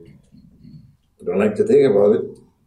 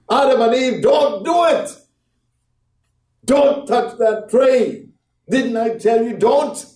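God shouting; 13 semitones higher than usual. Acted. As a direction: thunder it down like God forbidding. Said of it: "God could have shouted from high heaven".

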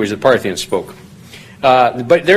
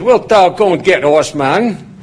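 a light Yorkshire farmhand lilt, raised question; Yorkshire accent; 5 semitones higher, slower than usual. Retold or imitated. Farmhand David asking the student to fetch something, mild Yorkshire imitation. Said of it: "he said it heavier and faster than that".

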